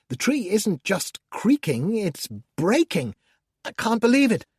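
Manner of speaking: gleefully feigned dismay as the tree falls; mock horrified commentary. Demon describing to the reader the house collapsing, mock alarm.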